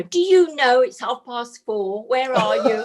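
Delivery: lightly mimicked small son calling upstairs; slow, mock-indignant call for a parent; child calling up. Mother mimics her little son at the stairs, mock calling up. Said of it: "he'd start calling up, you know".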